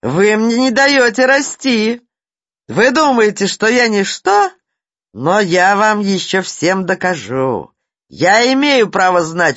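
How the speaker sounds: high, loud, cracking outburst; breaking into a shout. A narrator's reading. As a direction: lose control and yell at them. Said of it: "сорвался на крик".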